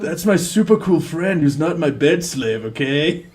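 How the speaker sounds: lightly voiced bro defending a friend; a hint of surfer bro; laid-back bro. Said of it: "he's like a bro".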